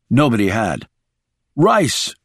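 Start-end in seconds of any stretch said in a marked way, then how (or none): 1.6-2.2 higher, contained narrator's shout. A narrator's reading. Shaw to wounded Rice across open ground, shouting. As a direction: call the name out urgently. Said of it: "he shouted".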